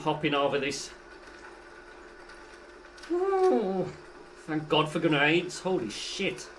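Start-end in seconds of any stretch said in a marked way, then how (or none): 3.1-3.9 whoop. Real, not acted.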